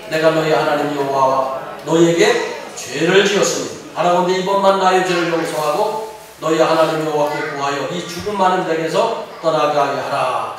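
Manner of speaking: measured, even scripture reading. A narrator's reading. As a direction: read the verse out steadily, drawing out the endings. (차분히 성경을 봉독하듯)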